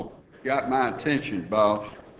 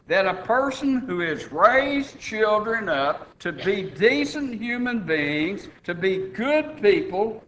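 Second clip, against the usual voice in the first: raised pitch, insistent pulpit argument; emphatic preaching; 5 semitones higher than usual. Real, not acted. Preacher arguing God wants family men as overseers, emphatic preaching. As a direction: press the argument home from the pulpit. Argues his point from pulpit.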